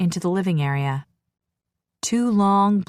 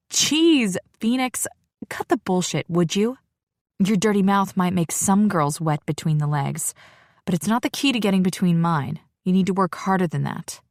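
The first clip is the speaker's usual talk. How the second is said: exasperated. Acted. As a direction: roll your eyes and scold him. Exasperated retort to his dirty talk.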